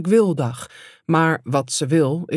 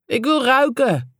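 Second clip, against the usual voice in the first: higher, slow drawn-out demand; lightly voiced cry of a customer; mildly called out; 6 semitones higher than usual. A narrator's reading. Lad demanding a sniff of shampoo in a shop, mildly called out. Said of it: "riep hij".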